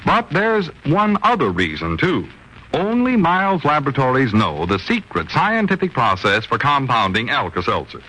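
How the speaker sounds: smooth persuasive commercial voice; radio ad read. Acted. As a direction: sell the product calmly. Reads the sponsor ad.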